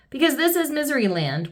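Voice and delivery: a mild, storybook weep. A narrator's reading. King explaining the rules, lightly weeping. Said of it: "wept the king".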